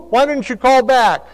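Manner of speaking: high, loud scolding mother voice; a mother calling then chiding her son; scolding mom. Retold or imitated. Mother scolding son for not answering, high and loud. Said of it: "And you know what she'd say?".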